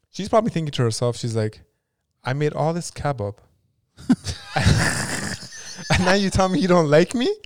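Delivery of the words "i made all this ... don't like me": hammed-up, indignant housewife rant, louder and higher; mock killer rant. Imagining the pharmacist scolding the girl, hammed-up indignant whine. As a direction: play the offended cook whining her grievance.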